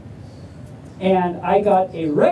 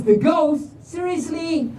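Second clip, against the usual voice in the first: exasperated rock; 7 semitones higher than usual. Acted. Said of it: "the Rock says".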